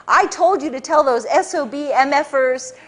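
a hint of a boss screaming and raving; mock ranting boss. Boss ranting at his agent, a mild mock yell. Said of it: "screaming, ranting and raving".

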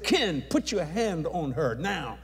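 slow, deliberate command; firm command. Retold or imitated. Preacher to father Ken, slow firm command. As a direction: lay down the instruction slowly and firmly. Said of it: "I said".

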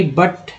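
बट with short 'uh', like 'but'. Shown as a demonstration. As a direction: keep the vowel of बट short and open. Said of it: "यू का उच्चारण आ के रूप में".

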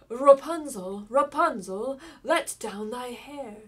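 prince shouting up the tower, loud and rising; loud call. A narrator's reading. King's son calls up to the tower, loud rising shout. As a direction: belt the name upward, then slow on the last line. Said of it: "he went to the tower and cried".

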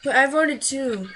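"voted" drawn out slow and loud; stress on VOTED. Real, not acted. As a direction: lean hard on "voted", slowly. Insists on his vote.

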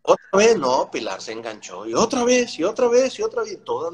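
high, excited repetition; building excitement. Real, not acted. Relato emocionado. (repite "otra vez" con emoción y voz alta)

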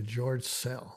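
"George Szell" said softly, "Szell" like "sell". Shown as a demonstration. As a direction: model "Szell" with a soft S and silent Z. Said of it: "soft S type sound".

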